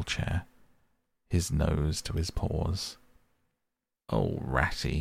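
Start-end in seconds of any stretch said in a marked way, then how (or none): 4.1-5.0 dismal cry. Acted. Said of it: "he cried dismally".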